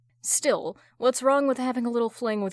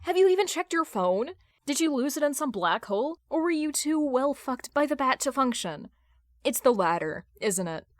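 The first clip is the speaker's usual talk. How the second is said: higher, biting, spitting venom; venom-laced taunt, pitched up; venomous jab; 4 semitones higher than usual. Acted. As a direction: lash out at your ex with scorn. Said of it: "Carol spits venom at Hal".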